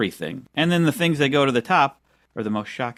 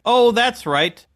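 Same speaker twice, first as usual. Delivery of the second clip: higher-pitched mock sudden realization; imitating co-host; 7 semitones higher than usual. Co-host imitates his friend reading the calendar, mock realization. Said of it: "and you were like".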